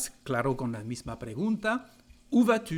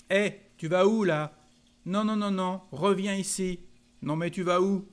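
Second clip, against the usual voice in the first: calling someone back; 5 semitones higher, 4 dB louder than usual. Acted. Teacher acts out calling someone back.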